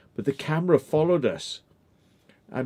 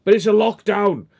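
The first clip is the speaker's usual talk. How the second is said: mock objecting officer; 9 semitones higher, 9 dB louder than usual. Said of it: "I go".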